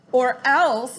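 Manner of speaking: put-on a king sneering at a boy's threat; mocking echo. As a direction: throw his threat back at him. Raven King mocking Jack's threat.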